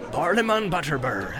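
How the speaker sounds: name said proudly in innkeeper voice; landlord introducing himself. Acted. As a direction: present yourself with pride. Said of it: "he said".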